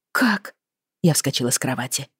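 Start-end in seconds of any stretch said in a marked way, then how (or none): 0.1-0.5 high-pitched startled gasp of a word; stunned, voice leaping up; shocked question. Acted. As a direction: blurt it out in alarm. Startled daughter jumps from bed.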